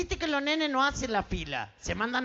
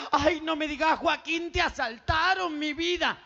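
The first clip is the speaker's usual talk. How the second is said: fretting mother; 3 semitones higher than usual. Acted. Mother alarmed at crying son.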